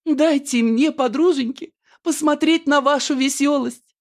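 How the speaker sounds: high, hammed-up tearful plea. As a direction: plead through mock tears, pitched high. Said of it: "сквозь слёзы говорит Аннушка".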